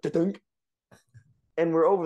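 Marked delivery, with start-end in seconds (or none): 0.0-0.4 higher two-beat impact noise; spoken thunk sound effect; imitated thud. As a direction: mimic a car bumping over something. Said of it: "it went like".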